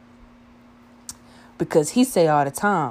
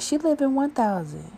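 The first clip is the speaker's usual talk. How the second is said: put-on high girly voice, higher; imitating a girl; 10 semitones higher than usual. One girl telling her friend he lives there, high girly voice. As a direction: pitch up into a chatty girl's voice. Girl quoted at front desk.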